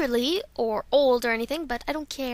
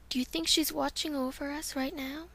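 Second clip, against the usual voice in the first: soft wondering; 9 dB quieter than usual. Acted. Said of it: "here's Violet Mist".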